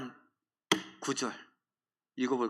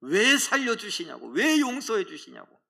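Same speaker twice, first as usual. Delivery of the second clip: slightly raised retold protest; a touch of indignant reproach; mild mock anger; 4 semitones higher than usual. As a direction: voice an angry complaint, lightly acted. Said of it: "그는 화를 냅니다".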